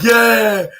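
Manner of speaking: drawn-out mock crowd cheer; imitated cheer. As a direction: cheer like fans in the stands. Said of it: "the fans are cheering like".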